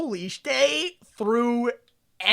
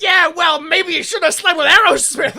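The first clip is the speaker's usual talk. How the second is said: snarky jab; 7 semitones higher, 8 dB louder than usual. Retold or imitated. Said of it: "Larry's like".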